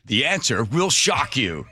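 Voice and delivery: slow, teasing teaser-trailer voice; clickbait video narrator. Pretend. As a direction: drag it out like a clickbait hook. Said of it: "Wow, that's a tease".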